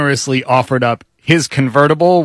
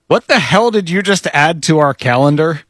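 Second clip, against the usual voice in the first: raised-pitch, incredulous demand; mock alarmed wife; 5 semitones higher than usual. Host reads wife's text about calendar, mock alarm. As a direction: imitate a wife's baffled text.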